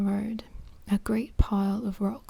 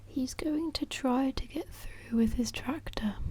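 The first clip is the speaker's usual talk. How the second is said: whispered Mrs Thompson; 3 semitones higher, 5 dB quieter than usual. Acted. Mrs Thompson warns Pat of floods, lightly higher worried whisper. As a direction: lightly lift the pitch for anxious Mrs Thompson.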